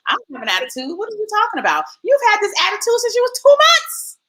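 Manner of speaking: put-on high indignant teen voice; imitating a sassy daughter; mocking a defiant teen. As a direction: whine it back like a teen denying everything. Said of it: "what they're gonna say to you".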